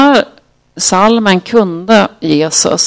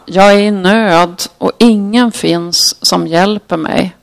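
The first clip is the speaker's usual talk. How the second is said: measured psalm reading with pauses between lines; understated recitation of a lament; scripture reading. Acted. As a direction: read the psalm out deliberately, verse by verse. Reads the psalm aloud.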